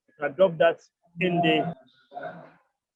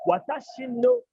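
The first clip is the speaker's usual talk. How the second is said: high model; 12 semitones higher than usual. Shown as a demonstration. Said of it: "teacher models phrase".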